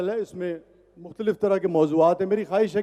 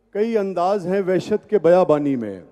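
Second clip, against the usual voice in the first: tender romantic poetry. Acted. Recites ghazal at mushaira.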